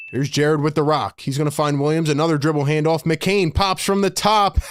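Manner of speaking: low, running basketball call; live play-by-play. Real, not acted. Streamer calls McCain's threes for viewers, live play-by-play. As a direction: keep the call moving, stretching the big shots.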